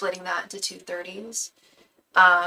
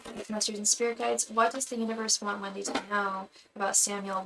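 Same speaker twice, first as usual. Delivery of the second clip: a soft, repeated invocation of the spirit guides; murmured invocation; 4 dB quieter than usual. Acted. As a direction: chant it quietly like a ritual prayer. Repeated invocation over cards.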